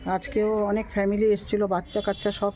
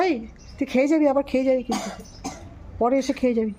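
eager instruction; 2 semitones higher, faster than usual. Real, not acted. Telling the stray to return and eat again, quick and eager. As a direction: urge the dog to come back later. Telling the dog to come back.

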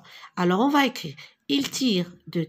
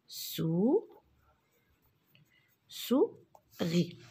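whispered; 4 dB quieter, much slower than usual. Shown as a demonstration. Teacher sounding out syllables.

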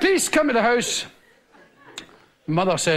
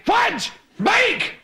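gruff outraged father, a bit higher; angry father; 5 semitones higher, slower than usual. Retold or imitated. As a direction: threaten the kid who asked.

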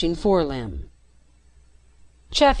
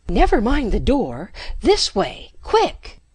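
urgent call; 5 semitones higher than usual. A narrator's reading. Urgent escape call to Jeff.

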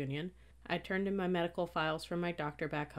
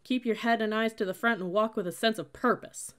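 loud, higher military command; barked order; 5 semitones higher, 6 dB louder than usual. A narrator's reading. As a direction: bark it like a drill cadet. Cadet barking orders in narration.

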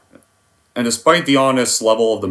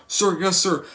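higher, timid recruit answering; Private Pyle; 6 semitones higher, 3 dB quieter, slower than usual. Retold or imitated. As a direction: answer meekly, staying at attention. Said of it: "How does the scene go?".

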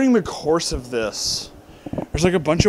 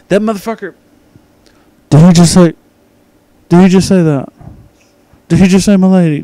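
loud, higher-pitched disbelief in broken bursts; incredulous outrage; 4 semitones higher, 11 dB louder than usual. Retold or imitated. Reviewer reliving hearing "m'lady" in the movie, loudly outraged. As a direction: sputter it loudly, stopping and restarting.

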